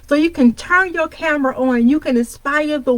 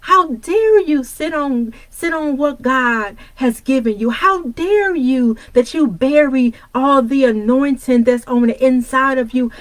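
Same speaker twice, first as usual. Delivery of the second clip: mother's voice. Retold or imitated. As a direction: lightly voice mom calling you out. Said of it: "I'ma say it in my mother's voice".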